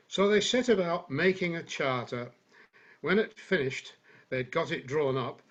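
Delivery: lightly put-on generic northern English accent for a comic monologue. Reciting a Stanley Holloway monologue to the online group, mild generic northern accent. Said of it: "I can do a sort of generic northern thing".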